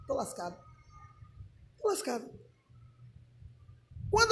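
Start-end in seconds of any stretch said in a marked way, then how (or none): 0.1-2.3 low, very soft aside; muttered dismay. Retold or imitated. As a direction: mutter it to yourself in mock despair. Acts own dismayed aside on hearing it.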